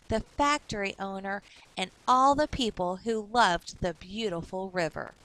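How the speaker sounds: put-on clear, lively reading for children; story narration. A narrator's reading. Teacher reading a storybook aloud to kids. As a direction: read the picture book to young listeners.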